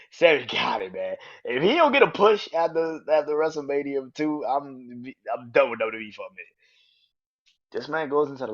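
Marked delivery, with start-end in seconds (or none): 0.1-6.4 excited rant. Real, not acted. Hyped fan rant about push.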